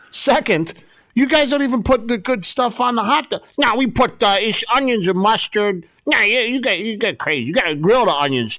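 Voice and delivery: high-pitched mock Boston accent; cartoonish Boston-accented bickering. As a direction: argue as a hammed-up Boston local. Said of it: "I'm giving them a Boston accent".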